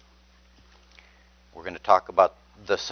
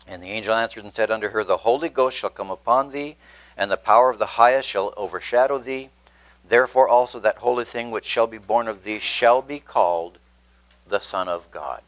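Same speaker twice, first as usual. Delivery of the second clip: scripture reading; 4 dB louder than usual. Acted. Preacher reading the annunciation aloud, raised and proclaiming. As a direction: proclaim the verses to the room.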